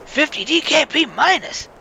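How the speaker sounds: high, loud unhinged shout of Fifty D K P minus!; enraged raid leader shrieking the penalty; screaming it. Retold or imitated. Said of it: "he's yelling".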